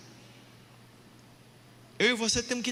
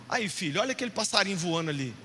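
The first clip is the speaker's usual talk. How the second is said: gentle, lower, fatherly aside; lower, reassuring father's tone; tender fatherly voice; 5 semitones lower, faster than usual. Acted. God speaking tenderly to the listener.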